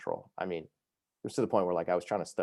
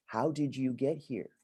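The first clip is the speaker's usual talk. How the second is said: slow, high incredulous question; retold astonishment; 6 semitones higher, slower than usual. Imitating nurse looking at groggy patient, incredulous.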